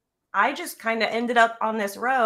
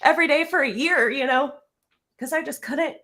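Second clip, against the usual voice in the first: holding back tears; 5 semitones higher than usual. Real, not acted. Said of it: "I'm trying not to cry".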